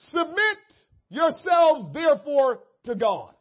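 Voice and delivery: shouted scripture. Real, not acted. Preacher proclaiming the verse to the congregation, loud. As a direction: call the verse out to the church.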